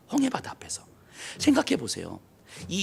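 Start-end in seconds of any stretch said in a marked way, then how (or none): 0.1-0.8 홍해바다 앞에서 breathed in a whisper. Shown as a demonstration. Preacher hushing the congregation at the Red Sea, whispered. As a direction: drop to a hushed whisper on 홍해바다. Repeats place, then whispers it.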